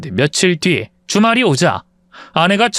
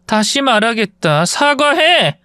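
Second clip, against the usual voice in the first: slow warning, then a sharp higher order to apologise; stern demand; 6 semitones higher, slower than usual. Acted. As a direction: repeat it slowly, then snap the command. Wife demands apology in restaurant.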